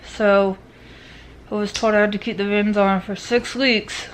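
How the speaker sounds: speaking through wired teeth; talking with mouth closed. Real, not acted. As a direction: talk with jaw wired shut. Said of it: "Just very hard to talk".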